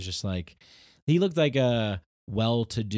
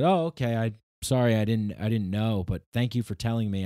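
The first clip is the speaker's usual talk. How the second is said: polite apology; 2 semitones higher, 4 dB louder than usual. Retold or imitated. His polite reply.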